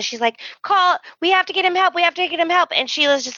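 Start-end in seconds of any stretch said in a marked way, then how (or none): 0.6-2.7 high-pitched mock panic; frantic screaming. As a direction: beg for help in a retold panic. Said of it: "She's screaming at Sheila".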